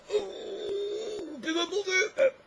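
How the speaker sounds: high whining mockery; whiny mock voice. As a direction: mimic him in a shrill whine. Imitating poet atheist.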